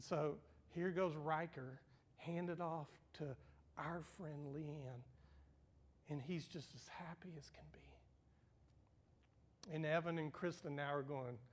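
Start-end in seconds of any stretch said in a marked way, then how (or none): 6.1-7.8 almost whispered, moved; soft whisper. Real, not acted. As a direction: whisper it tenderly. Tender aside about grandson.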